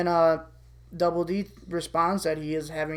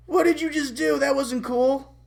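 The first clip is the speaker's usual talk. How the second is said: higher voice, gently reproachful angel; scolding shoulder angel; 7 semitones higher than usual. Acted. Angel scolding Eddie on his shoulder, high reproach. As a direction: scold like a little conscience. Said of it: "Angel Eddie pops up on his shoulder".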